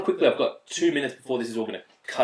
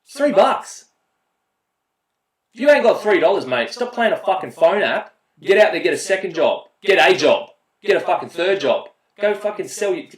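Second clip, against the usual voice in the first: loud, higher, ranting disbelief; mock angry rant; 6 semitones higher, 5 dB louder than usual. Gamer ranting at a broke teammate, loud and higher. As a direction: tear into him about three dollars.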